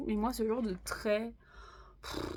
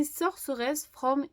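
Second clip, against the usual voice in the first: slow, French-accented English; terrible English accent; slower than usual. Real, not acted. Vlogger reading a manga title to viewers, terrible English accent. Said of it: "mon anglais est terrible".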